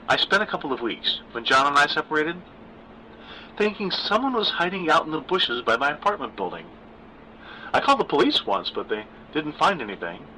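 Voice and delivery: a hint of nervous daughter; Gwen's voice. Narrator voices daughter Gwen.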